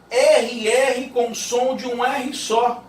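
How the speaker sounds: slow, with "R R" given a stretched guttural sound; drawn-out rr. Shown as a demonstration. Teacher showing the double r sound. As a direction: linger on "R R" as one rolled sound. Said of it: "Viu aí?".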